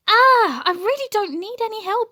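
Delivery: high startled ah, rushed words; panicked brush-off while diving for the pot; quick alarmed protest; alarmed exclamation. A narrator's reading. Mr Brown alarmed, catching teapot.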